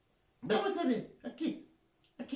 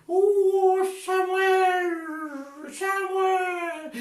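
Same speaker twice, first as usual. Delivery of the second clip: God's trumpet voice; 2 semitones lower, much slower than usual. Acted. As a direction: boom like a trumpet from heaven. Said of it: "Dios habla como voz de trompeta".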